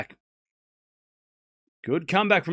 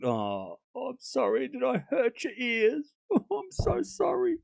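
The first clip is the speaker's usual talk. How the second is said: sarcastic apology; 6 semitones higher, 7 dB quieter, slower than usual. Pretend. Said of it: "I was being sarcastic".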